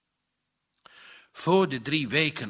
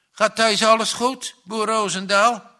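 with a little laugh; 5 semitones higher, 4 dB louder than usual. A narrator's reading. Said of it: "vroeg Ai met een lachje".

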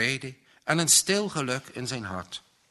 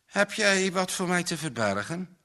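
higher-pitched, pointed question; sharp questioning; 7 semitones higher than usual. A narrator's reading. Johannes suspects his friend is hiding something, sharp questioning. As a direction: put it to him sharply, pitched up. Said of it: "keek hem eens scherp aan".

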